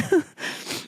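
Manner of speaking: soft laugh through tears; a small laugh while crying; teary laugh. Real, not acted. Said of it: "I'm crying".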